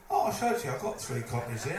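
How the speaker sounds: high and loud, giggling; proud offer retold through laughter; laughing.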